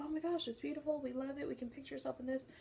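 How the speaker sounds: oh-my-gosh delight, quickening at the end; gushing excitement. Retold or imitated. Couple gushing over a house.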